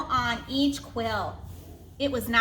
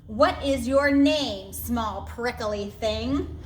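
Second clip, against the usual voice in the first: unkindly; slower than usual. Acted. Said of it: "asked the rhinoceros unkindly".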